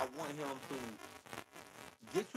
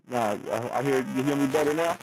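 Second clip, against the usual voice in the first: fuzz distortion; 13 dB louder than usual. Real, not acted. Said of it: "it still got that distorted noise on it".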